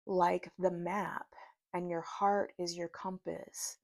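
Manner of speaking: slow, deliberate read-aloud; spoken message, paced phrase by phrase; reading a channeled message. Real, not acted. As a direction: read it out in measured phrases with pauses.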